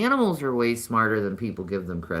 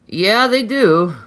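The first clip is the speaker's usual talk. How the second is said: louder, higher, slow emphatic agreement; 8 semitones higher, 11 dB louder, slower than usual. Real, not acted. Replying to a viewer about cats, loud emphatic yes. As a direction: insist it's true.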